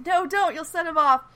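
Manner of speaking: imitating a panicked warning, high and loud; mock-alarmed plea to stop; urgent warning. Voices Bennett warning against shooting.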